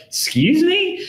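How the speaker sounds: very high, incredulous question; mock shock, pitch shooting way up; retold shocked disbelief. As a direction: squeak it like a scandalized onlooker. Whole room reacts to lover reveal.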